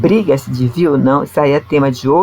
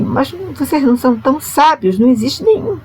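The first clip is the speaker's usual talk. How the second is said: ironic; 5 semitones higher than usual. Retold or imitated. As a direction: voice the apostle's irony in a raised pitch. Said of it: "com um tom irônico".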